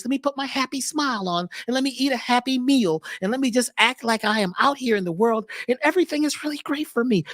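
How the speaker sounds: lightly put-on happy voice; fawn happy voice. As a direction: fake cheerful people-pleaser. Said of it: "it's your happy voice".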